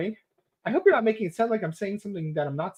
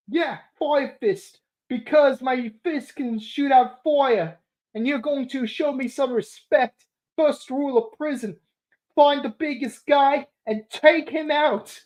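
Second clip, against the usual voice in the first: mock villain; 5 semitones higher than usual. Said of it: "I know I don't actually sound like Fire Fist".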